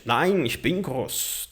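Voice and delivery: slow model reply; slow example answer. Shown as a demonstration. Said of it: "No sentido de".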